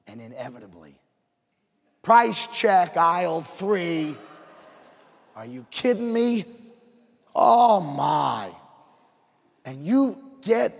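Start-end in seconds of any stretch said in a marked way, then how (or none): 2.0-4.2 loud PA-style call, drawn out; mimicking the checkout loudspeaker; mock store announcement. 5.3-8.5 a shopper at the end of their rope; exasperated outburst. Retold or imitated. Frustrated shopper stuck in line.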